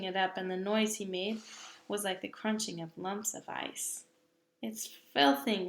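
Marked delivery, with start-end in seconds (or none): 4.6-5.7 sputtered. Acted. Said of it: "he sputtered".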